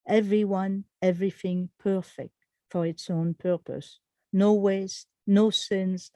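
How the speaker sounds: deliberate, phrased poetry reading; poem recitation. Acted. Poet reading Smoking on the Equinox to an audience, measured recitation. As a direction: recite in short measured phrases, dropping at line ends. Reads own poem aloud.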